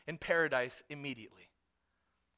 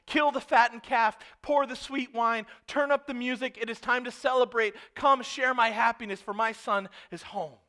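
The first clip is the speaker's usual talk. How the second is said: high, loud celebratory proclamation; preacher voicing a rejoicing dad; jubilant father; 6 semitones higher, 9 dB louder than usual. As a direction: call everyone to the feast, acted with full force. Father orders celebration for son.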